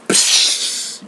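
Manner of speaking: long airy "psh" whoosh; whoosh sound. Shown as a demonstration. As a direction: imitate a rushing whoosh with the breath. Imitates the leap from the window.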